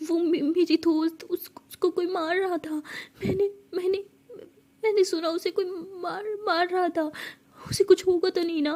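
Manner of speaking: put-on a scared girl describing a nightmare through sobs; frightened, tearful. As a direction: stumble over the words in fear.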